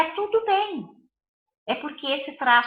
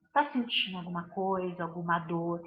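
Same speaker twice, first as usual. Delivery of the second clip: soft, low, caring question; quiet tender check-in with a crying child; gentle concerned mother; 7 semitones lower, 9 dB quieter than usual. Retold or imitated. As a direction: ask gently like a worried mother. Mother gently asking daughter.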